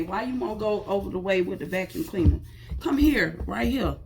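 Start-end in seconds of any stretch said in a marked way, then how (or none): 2.8-4.0 coaxing. Real, not acted. Coaxing the dog.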